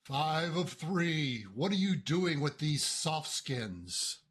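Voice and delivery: slow, even robotic speech; mechanical voice. Acted. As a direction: speak like a slow machine. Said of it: "in a mechanical voice comes out and says".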